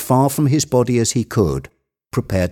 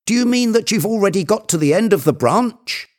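very high, incredulous question; excited shout; 12 semitones higher, faster than usual. A narrator's reading. Legrand questioning Jupiter on his progress, high and excited. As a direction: question it at a keyed-up high pitch. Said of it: "Legrand shouted".

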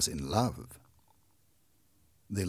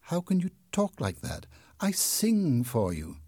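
sad voice; 9 semitones higher than usual. A narrator's reading. Christine answers the hidden man, mildly sad. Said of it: "Christine's sad voice replied".

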